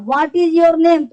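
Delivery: slow, clear question for learners. Shown as a demonstration. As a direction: ask it slowly as a model. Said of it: "तुम्हारा नाम क्या है". (धीमा उदाहरण प्रश्न)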